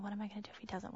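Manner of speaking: softly, to herself; worried inner voice. Retold or imitated. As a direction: think it aloud, anxious. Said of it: "I'm thinking".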